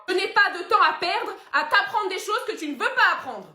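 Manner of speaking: loud, high, scolding rant; exasperated rant. Acted. Son scolding his father over Netflix, loud exasperated rant. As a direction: scold him like a child.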